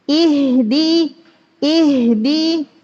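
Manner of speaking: "Ihdi" starting on a pure thin i; clear i. Shown as a demonstration. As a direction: open "Ihdi" with i, not e. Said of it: "tapi i". ("Ihdi" diawali i yang jelas)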